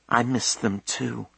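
a touch of a quaver, kept small; quavery voice. A narrator's reading. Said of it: "her voice quavery".

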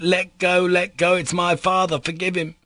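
very high, urgent begging; child's crying plea. Retold or imitated. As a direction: imitate a small boy pleading for his father. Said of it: "crying to my assailant".

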